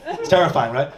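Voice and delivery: normal talking voice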